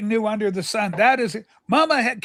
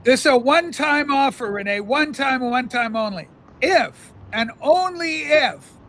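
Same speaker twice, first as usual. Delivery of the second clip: mock public appeal.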